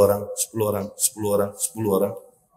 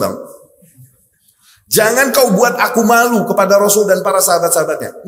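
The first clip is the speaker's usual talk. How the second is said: stern warning; 5 semitones higher, 4 dB louder than usual. Retold or imitated. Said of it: "Istrinya ini pesan sama Jabir".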